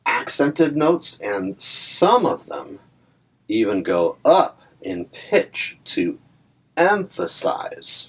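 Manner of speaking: slow, stretched stress on ACCENTED, SOME, UP and EMPHASIZE; exaggerated emphasis. Shown as a demonstration. Teacher demonstrating spoken emphasis, slow and punched on EMPHASIZE. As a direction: lean hard and slowly on each key word, ACCENTED, SOME, UP, EMPHASIZE. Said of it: "constantly emphasizing".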